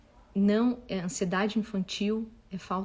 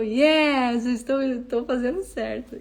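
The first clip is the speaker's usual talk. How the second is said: triumphant cheer; 3 semitones higher, 5 dB louder, slower than usual. Retold or imitated. Mother cheering her son's answer to the old lady, triumphant. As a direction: celebrate like you just won. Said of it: "E eu".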